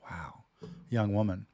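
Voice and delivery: ordinary talk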